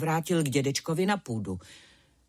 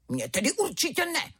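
a touch of a defiant cub roar; 9 semitones higher than usual. Acted. Tiger cub answering his mother, mildly defiant. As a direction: toss it back boldly, lightly voiced. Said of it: "zařval malý tygr".

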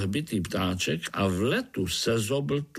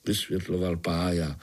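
plain reading voice

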